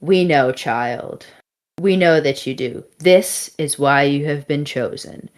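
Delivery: measured, lightly voiced divine being; a hint of solemn pronouncement; otherworldly voice. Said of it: "to this, the voice responds".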